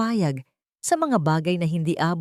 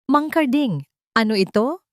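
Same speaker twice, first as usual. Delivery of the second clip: sweet voice with an edge, pitched higher; malambing pero may talim; 6 semitones higher, 4 dB louder than usual. A narrator's reading. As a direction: call him over sweetly, with a sting underneath. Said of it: "Ang boses ay malambing pa rin, ngunit may talim". (malambing na boses na may talim)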